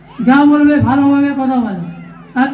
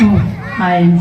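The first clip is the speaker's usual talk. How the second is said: goofy muffled sock puppet; 8 semitones lower, slower than usual. Acted. Puppet apologises to host.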